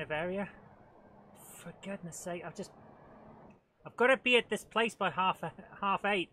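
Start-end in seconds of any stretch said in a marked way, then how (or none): 1.6-6.3 exasperated. Real, not acted. Rushing, late for appointment.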